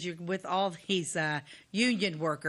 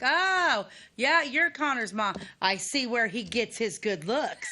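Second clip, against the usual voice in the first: flirty coworker voice; 5 semitones higher, slower than usual. Retold or imitated. Coworker flatters Connor's mom, hammed-up flirty voice. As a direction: charm her with a flattering line. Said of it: "was like".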